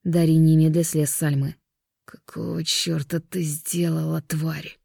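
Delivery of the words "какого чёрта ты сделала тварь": quiet slow hoarse rasp from a poisoned man. Acted. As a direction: choke it out, hoarse and failing. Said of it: "произнёс сиплым голосом".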